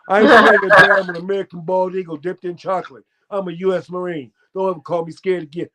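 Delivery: high, loud brag that settles into fast talk; mock-heroic American bravado; defiant boast. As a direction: puff up and refuse to be called scared. Retold boast to bear handler.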